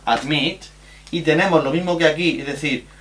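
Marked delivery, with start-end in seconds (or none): 0.0-0.6 admit, stressed on the second syllable; stress on last syllable. Shown as a demonstration. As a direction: lean on the MIT of admit. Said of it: "su acento recae en la última".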